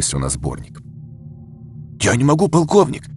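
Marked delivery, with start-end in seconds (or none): 2.0-3.0 higher, croaking protest from the floor; strained croak. A narrator's reading. Floored bodyguard pleads with his colonel, croaking. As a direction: croak it out as a beaten man. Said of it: "прохрипел поверженный секьюрити".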